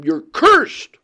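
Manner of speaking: loud, high yell, reenacting the man; a father yelling at his addicted friend, loud and high; retold shout. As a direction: shout it at him like he's hooked and won't quit. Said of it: "he just had to shout and yell at him".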